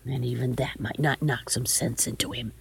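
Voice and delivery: hushed, low, breath-heavy falling away; soft, resigned lament; weary despair. A narrator's reading. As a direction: let it sink into a despairing murmur. Grandmother's despairing inward sigh.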